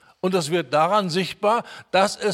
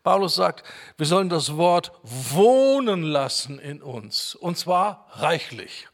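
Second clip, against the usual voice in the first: ordinary talk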